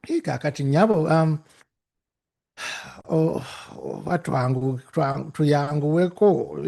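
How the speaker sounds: politely pleading in Luganda; Luganda plea. Retold or imitated. Luganda, asking the clerk politely to hurry. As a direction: coax her gently in Luganda. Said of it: "speak Luganda a little bit".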